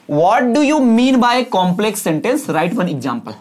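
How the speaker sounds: very slow, clear question read-out. Shown as a demonstration. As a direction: read the exam question for copying. Reading exam question slowly. (प्रश्न धीरे-धीरे पढ़कर सुनाना)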